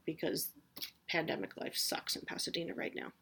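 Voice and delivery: whispered gripe. Real, not acted. Grumbling aside about the pandemic.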